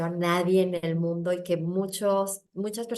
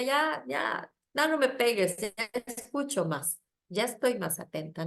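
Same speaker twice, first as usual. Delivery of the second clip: pleading; 3 semitones higher than usual. Retold or imitated. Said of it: "le digo a la vida".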